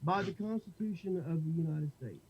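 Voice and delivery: muffled behind a covered mic; finger over the mic. Real, not acted. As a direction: hand over the microphone. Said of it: "You're, you're covering your microphone when you're doing that".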